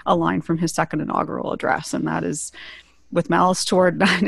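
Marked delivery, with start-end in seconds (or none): 3.1-4.2 tagline broken by a little laugh mid-phrase. Real, not acted. Podcast host repeating her tagline to the guests, laughing. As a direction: chuckle your way through the last word.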